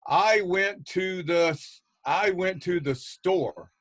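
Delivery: slow halting student reading; stumbling child reader; misreading student. Shown as a demonstration. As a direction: read it like a struggling kid, slowly. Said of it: "that was a good try 'cause of the S T".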